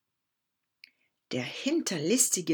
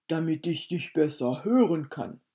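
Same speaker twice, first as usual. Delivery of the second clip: a hint of menace under the disguise; lightly voiced wolf; 3 semitones lower than usual.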